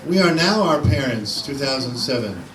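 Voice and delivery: measured poetry reading with pauses between phrases; poem recitation. Acted. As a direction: read it out as verse, phrase by phrase. Reads own poem aloud.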